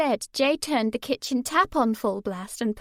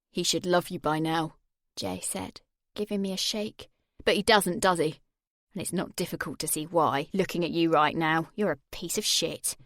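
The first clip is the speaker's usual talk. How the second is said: menacing Jay; 4 semitones lower than usual. Acted. Jay holding her face over the flame, menacing. Jay voiced through the scene.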